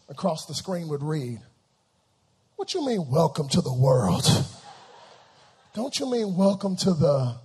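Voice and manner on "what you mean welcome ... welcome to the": lightly voiced protesting newborn; newborn's indignant retort. Newborn's translated cry to parents, mock indignant retort. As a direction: question it with mild mock indignation. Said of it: "transcribe the cry of every newborn baby".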